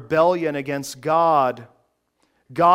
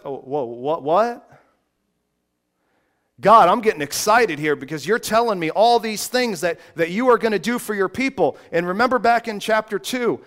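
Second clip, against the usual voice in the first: quick, louder, eager rambling; excited Moses; 2 semitones higher, 3 dB louder than usual. Acted. Moses answering God, quick and excited. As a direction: Moses catching his breath with excitement. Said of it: "Can you hear Moses?".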